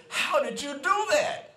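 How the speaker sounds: high-pitched, astonished questioning; simply amazed. Acted. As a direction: act out a man baffled by what he just saw. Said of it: "The man is simply amazed".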